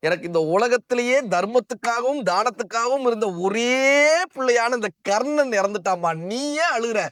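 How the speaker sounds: anguished goddess lament. A narrator's reading. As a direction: wail it to Kunti, pitch rising toward the end. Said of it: "நெஞ்சில் அடித்து கொண்டு அழுதாள்".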